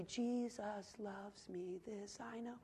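very soft, slow, drawn-out words; tiny, slow voice for a child's song; hushed children's hymn. Retold or imitated. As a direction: gently imitate a little one's hymn, barely audible. Baby's hymn amid hushed story.

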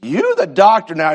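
squeaky joking refusal; mock high shout. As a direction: yelp of teasing protest.

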